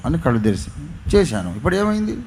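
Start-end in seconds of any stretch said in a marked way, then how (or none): 1.1-2.2 quick, higher mocking challenge; fast sneering dare, pitched up; sarcastic. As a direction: toss the question back with scorn. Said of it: "అంటే ఆయన వెటకారంగా".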